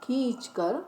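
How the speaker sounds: "खींचकर" with its first vowel drawn out; stretched vowel. Shown as a demonstration. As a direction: linger on the ee in "खींचकर". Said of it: "आवाज़ लंबी कर कर बोलते हैं".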